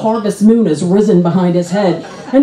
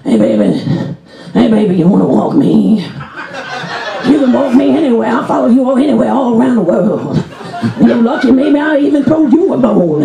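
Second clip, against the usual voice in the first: panhandler. Acted. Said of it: "He's just running up and he's going".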